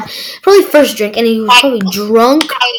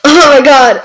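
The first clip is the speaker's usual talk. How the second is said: laughter breaking through the words; can't hold back a laugh. Real, not acted. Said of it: "I'm trying so hard not to laugh".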